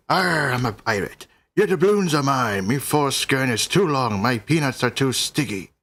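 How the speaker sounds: hammed-up pirate growl, "Arr" up front. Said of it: "you read this in a pirate voice?".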